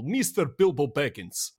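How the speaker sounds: lightly imitated Russian pronunciation of the name; Russian accent. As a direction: say "Mister Bilbo Baggins" as a Russian would. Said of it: "the way that Russians pronounce Bilbo Baggins".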